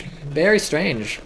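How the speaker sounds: very strange stretched out slowly; drawn-out very strange. Real, not acted. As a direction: draw out "Very strange." slowly and musingly. Repeats the phrase, drawn out.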